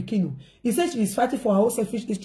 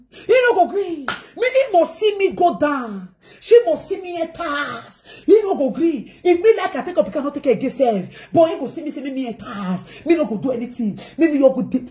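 angry vow; 2 semitones higher than usual. Retold or imitated. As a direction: act out the sister's angry vow. Quoting sister's angry vow.

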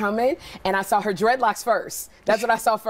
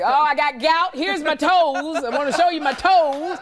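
Rosie impression; 2 semitones higher than usual. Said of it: "what I gotta do about Rosie".

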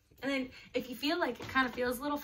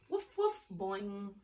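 woof woof, pitched way up like a little dog; 3 semitones lower, much slower than usual. Pretend. Reading puppy sounds to kids.

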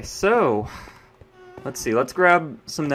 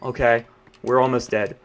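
ordinary delivery

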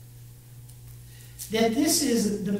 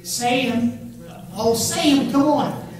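coaxing call; 4 dB louder than usual. Real, not acted. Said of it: "Say 'em with me".

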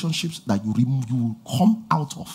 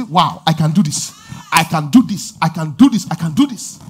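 excited self-talk; 5 dB louder than usual. Acted. Acting out confident self-talk.

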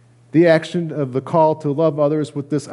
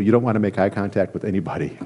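laughing; 4 semitones lower, 3 dB quieter, faster than usual. Real, not acted. Preacher laughing at own awkwardness.

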